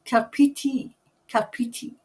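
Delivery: "Carpiti" sounded out as car-PEE-tee; pronunciation practised. Shown as a demonstration. Host practises a listener's place name, deliberate pronunciation of "Carpiti". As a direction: repeat "Carpiti" with a clear r in the first syllable. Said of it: "It's pronounced Carpiti".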